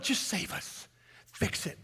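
breathy whispered plea to God; whispered prayer. Real, not acted. Praying to the Lord.

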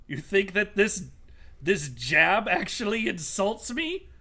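lightly voiced haughty villain, slow and deliberate. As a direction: challenge them with slow, measured disdain. Villain addresses the party in character.

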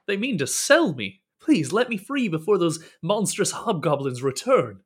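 mildly dramatic plea with rising swells; urgent pleading. Acted. Captive begs stranger to untie him, urgently pleading. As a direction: beg to be let free.

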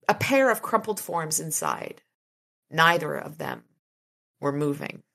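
measured, dramatic audiobook reading; story narration. A narrator's reading. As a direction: read the action scene evenly and deliberately.

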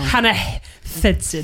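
Thudson with a lisp. Pretend. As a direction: say Thudson lisping the S as TH. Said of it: "It just sounds like you've got a lisp".

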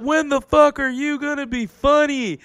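high, drawn-out heckle; heckler's yell. Retold or imitated. Audience member heckles the comic, mock yell. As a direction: imitate an audience yell, stretched out. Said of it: "somebody from the audience yells out".

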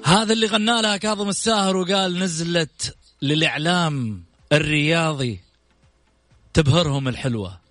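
showy announcer build-up over music; grand TV show host introduction; TV presenter intro. Acted. Host's dramatic guest introduction over music.

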